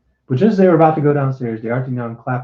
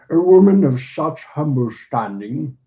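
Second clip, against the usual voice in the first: contemptuous; 4 semitones higher than usual. A narrator's reading. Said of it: "curled his lip contemptuously".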